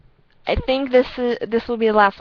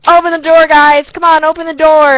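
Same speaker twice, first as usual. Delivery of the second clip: imitated drunk yelling; 8 semitones higher, 12 dB louder than usual. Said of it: "he's like".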